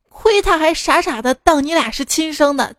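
put-on old wife cursing her two greedy sons; scolding angrily. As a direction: berate the sons like a furious mother. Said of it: "继续骂两个儿子".

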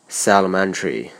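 "elementary" begun with the linked s of "helps"; linked release. Shown as a demonstration. Teacher showing the practice step after the pause, linked "selementary". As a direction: release the lips straight into "selementary". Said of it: "而后直接张开嘴唇读".

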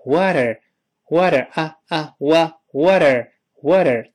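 water with the middle t softened into a light d; slow American water, t turned to d; flapped t in water. Shown as a demonstration. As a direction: tap the t lightly in water, wadə. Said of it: "中间这个字母T轻轻地浊化成的".

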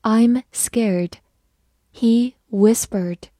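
"I'm scared, he whispered" slowly, each word set apart; slow reading. Shown as a demonstration. Teacher leads learners through "I'm scared, he whispered", slow reading. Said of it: "慢慢来读".

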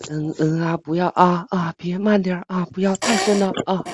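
put-on pleading moans between short phrases; hammed-up breathless pleading; mock moaning. Streamer doing a forfeit for co-hosts, mock moaning.

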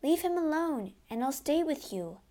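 high-pitched desperate plea; screamed plea. A narrator's reading. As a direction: plead for his safety, easing off. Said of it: "screamed Christine".

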